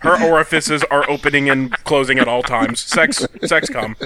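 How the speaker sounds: flat, mechanical mock reading; robotic reading. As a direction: read it like a clunky robot. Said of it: "the robotic reading of all this sex".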